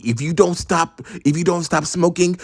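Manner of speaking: mock-mom warning escalating to a high-pitched frenzy; lecturing mom. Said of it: "She would keep on telling me".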